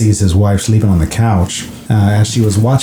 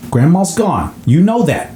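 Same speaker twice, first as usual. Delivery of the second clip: higher, strained mother's voice; a hint of a distressed mom; mother insisting her son stop; pleading mother; 7 semitones higher than usual. Mom voiced in retold scene.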